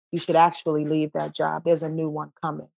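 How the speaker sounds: soft and low, unhurried; a calm inner voice giving advice; calm spirit voice. Retold or imitated. Spirit speaking calmly to you, soft and low. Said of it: "spirit will say very calmly".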